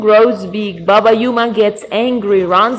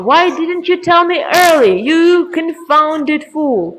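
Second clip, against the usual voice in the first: scolding grandpa; 5 semitones higher than usual. Acted. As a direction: start fast, then stretch out the insult. Grandpa scolds the slow raven.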